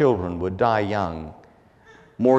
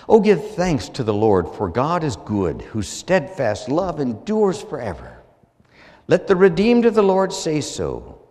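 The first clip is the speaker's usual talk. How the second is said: solemn psalm reading, rising and full; scripture reading; 3 semitones higher than usual. Real, not acted. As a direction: read the psalm like a proclamation. Reads psalm aloud.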